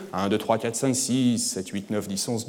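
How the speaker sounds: even beats, one per syllable, counted off; plodding count of the alexandrine's beats; syllable-counting scansion. Shown as a demonstration. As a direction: tick off each syllable like a metronome. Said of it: "la rébarbative prononciation circonflexe".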